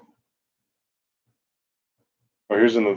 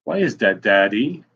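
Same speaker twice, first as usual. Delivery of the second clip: lightly voiced child; 2 semitones higher, 6 dB louder, slower than usual. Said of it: "My son had lots of questions".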